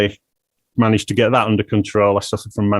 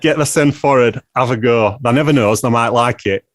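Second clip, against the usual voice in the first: broad Yorkshire dad voice; blunt northern dad, Yorkshire accent; thick Yorkshire accent. Retold or imitated. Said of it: "I have to adopt my dad's thick Yorkshire accent here".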